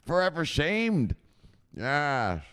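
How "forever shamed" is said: slow, weighty; solemn emphasis. Real, not acted. Streamer solemnly condemning the viewer, slow. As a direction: lean on shamed. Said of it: "he will be forever shamed".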